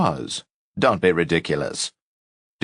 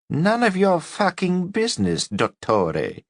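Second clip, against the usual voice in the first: rude rebuff; 12 semitones higher, slower than usual. A narrator's reading. Old woman rebuffs doctor rudely.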